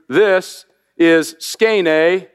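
"skene" slowly spelled out as skay-nay; Greek word skene. Shown as a demonstration. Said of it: "That is the word for tabernacle".

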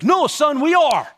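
retelling the dad's firm, slightly indignant correction; bewildered, upset dad. Retold or imitated. Dad corrects his doubting son, mildly upset and insistent. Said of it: "a little bit bewildered and maybe even upset".

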